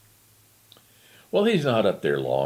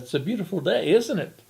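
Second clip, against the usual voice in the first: fairy godmother voice; 8 semitones higher than usual. Acted. Devil greets the old man.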